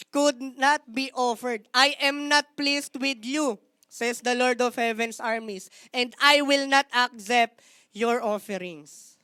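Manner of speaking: weighty rebuke. Acted. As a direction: pronounce judgement slowly and heavily. Continues the Lord's rebuke.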